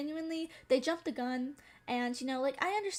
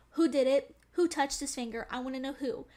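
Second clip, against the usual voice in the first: teacher demanding; 5 dB louder than usual. Retold or imitated. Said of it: "the teacher was like".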